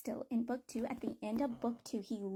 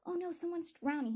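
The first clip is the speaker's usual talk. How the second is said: mock alarmed scream; 6 semitones higher than usual. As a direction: cry out in mild mock alarm. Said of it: "people were screaming".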